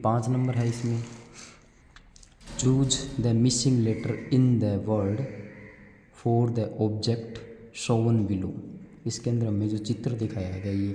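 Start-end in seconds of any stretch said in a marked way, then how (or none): 2.6-8.5 very slow, louder English read; slow, louder classroom read-aloud; reading a question aloud. Acted. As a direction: read the worksheet line slowly and clearly for the class. Reads worksheet question slowly.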